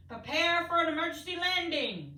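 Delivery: urgent command. A narrator's reading. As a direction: order an emergency landing. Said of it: "Santa instructed".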